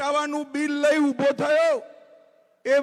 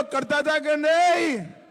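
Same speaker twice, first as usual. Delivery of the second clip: louder; 4 semitones higher, 3 dB louder than usual. Shown as a demonstration. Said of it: "જરા જોરથી બોલો".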